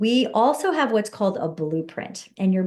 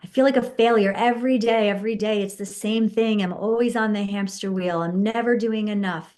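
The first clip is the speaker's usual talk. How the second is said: agitated venting. Shown as a demonstration. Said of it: "Whatever feels what you're dealing with".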